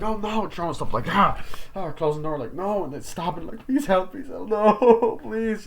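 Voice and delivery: high, loud, hammed-up panic; mock terror while running; panicked Sydney. Sydney fleeing Ghostface, hammed-up high panic.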